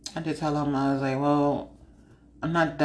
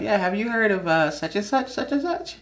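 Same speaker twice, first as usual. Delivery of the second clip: rising innocent question; 5 semitones higher than usual. Retold or imitated. Steering talk back to anime.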